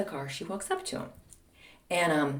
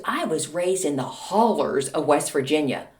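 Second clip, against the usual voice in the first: lower, lilting Southern imitation; Southern accent; 4 semitones lower than usual. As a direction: imitate mom's West Virginia twang. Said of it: "little lilt of a Southern accent".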